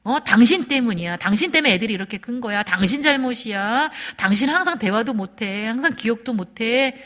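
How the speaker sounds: mildly heated mock accusation; acted blaming. Spouse blaming the other for everything, mildly heated accusation. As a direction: pin it on the partner, point after point. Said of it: "비난".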